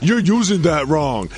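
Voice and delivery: mocking the co-host. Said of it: "be like".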